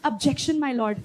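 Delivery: serious courtroom lawyer. Pretend. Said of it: "इतना serious कि लगा अभी बोलेगा". (वकील जैसी नकली गंभीरता)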